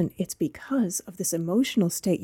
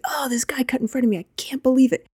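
quick, breathy, higher mock outrage, rising at the end; hammed-up venting about a bad driver; mock indignant complaint; 6 semitones higher, faster than usual. Imitating a driver telling coworkers about being cut off, mock indignant.

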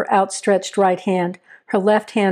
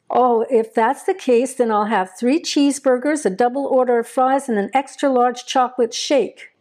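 lightly voiced boy, higher pitch; eager boy ordering dinner, pitched up; young prisoner's mild delight; 4 semitones higher than usual.

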